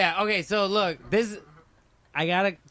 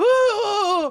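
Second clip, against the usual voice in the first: very high, loud freak-out squeal. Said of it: "completely lost his shit".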